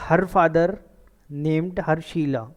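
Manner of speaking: slow, words spaced out; slow dictation. Shown as a demonstration. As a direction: dictate it slowly to the class. Teacher dictates example sentence. (धीरे-धीरे लिखवाना)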